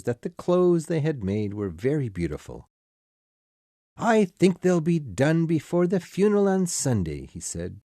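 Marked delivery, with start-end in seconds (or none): 4.0-7.3 cheerful father. A narrator's reading. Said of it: "Poor Bob was very cheerful".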